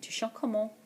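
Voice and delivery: tu chantes comment tossed off, comment at the end; casual question. Shown as a demonstration. Teacher showing the informal spoken word order. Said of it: "asking a question informally".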